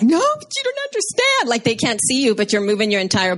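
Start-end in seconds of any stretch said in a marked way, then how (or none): 0.0-1.5 much higher, pleading whine; mock protest. Explaining on the phone to someone, high mock whine. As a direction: protest like a frustrated kid. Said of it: "I have to be like".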